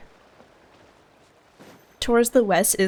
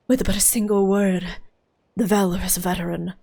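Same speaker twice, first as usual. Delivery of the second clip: storyteller voice; 5 semitones lower than usual. Acted. Reads storyteller character.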